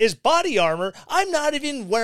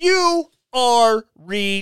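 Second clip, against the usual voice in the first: very slow, very deliberately drawn-out, raised words; 5 dB louder than usual. Addressing doubting listeners about veterans, saying it very slowly. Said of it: "I'm saying that slow".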